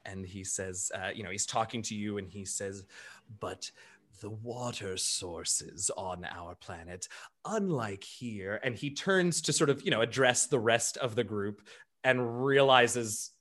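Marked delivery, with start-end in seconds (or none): 3.4-8.6 low, soft and slow, proud of home; fond gentle elephant. Acted. Bertrand telling Ikemba about his farming planet, low and soft. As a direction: linger on the beauty of the homeworld.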